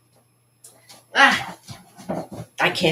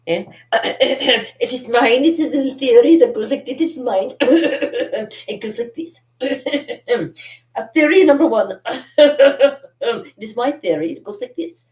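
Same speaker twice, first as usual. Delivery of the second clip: Monty Python sketch voice; 9 semitones higher, 8 dB louder than usual. Retold or imitated. Doing a Monty Python sketch for viewers, high and fussy. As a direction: pipe up like a prim Monty Python character announcing a theory. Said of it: "Monty Python".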